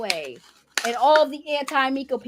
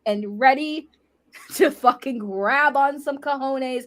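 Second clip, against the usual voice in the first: sexy cat voice; 4 dB louder than usual. Pretend. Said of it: "sexy cat voice".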